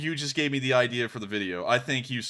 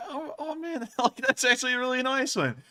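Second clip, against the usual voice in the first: laughing; 12 semitones higher than usual. Real, not acted. Laughing at a kind compliment.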